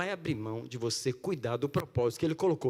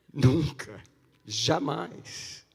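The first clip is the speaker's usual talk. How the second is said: emphatic no; 6 dB louder, much slower than usual. Real, not acted. Emphatic denial.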